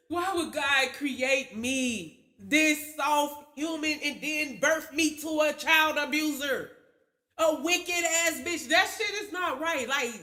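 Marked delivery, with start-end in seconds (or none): 0.1-8.7 retold sad lament. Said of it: "be always crying and sad".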